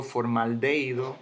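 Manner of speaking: "formaldehído" stressed on DE, for-mal-DÉI-do; mis-stressed "formaldehído" as formalDÉido; wrong stress on DE. Shown as a demonstration. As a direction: punch DE in "formaldehído", gliding into the I. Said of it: "Yo no digo".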